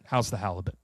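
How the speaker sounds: low-key Australian attempt with a Fargo tinge; botched Australian accent. Retrying the halibut question, botched Australian accent. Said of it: "my Australian has a Fargo accent".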